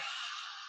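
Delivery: long breathy ha sigh out; whispered ha exhale. Shown as a demonstration. Yoga teacher shows the class the exhale, a long whispered ha. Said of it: "make it into a ha sound, like a whisper".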